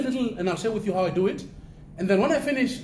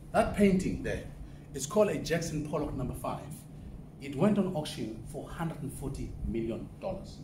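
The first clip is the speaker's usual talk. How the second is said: said very slowly; 5 semitones lower, 5 dB quieter than usual. Shown as a demonstration. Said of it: "Let me say it very slowly".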